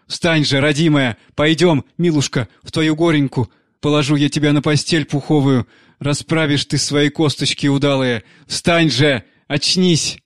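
a hint of a crazed nanny coaxing the dead; tender, desperate pleading; grieving nanny pleading. (няня умоляет мёртвую воспитанницу встать)

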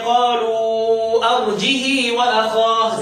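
drawn-out Quranic reciting; reciting the Kisai reading like Warsh; slow recitation. Shown as a demonstration. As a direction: recite slowly, stretching the vowels. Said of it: "يبقى يقول إيه؟".

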